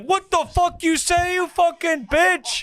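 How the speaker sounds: high, squeaky mock rage; mock furious outburst. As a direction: play him blowing up over his height, hammed up. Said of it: "And he's like".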